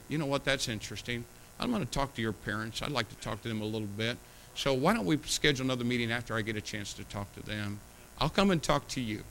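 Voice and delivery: put-on soft, reassuring counsel to a teen; calm pastor's reply. Pastor to a young person, softly reassuring. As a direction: gently tell the child you'll talk to the parents. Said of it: "I'll say".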